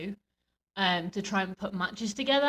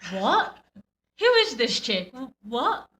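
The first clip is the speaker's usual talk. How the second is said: confused crowd; 4 semitones higher, 4 dB louder, slower than usual. Retold or imitated. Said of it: "and it's like".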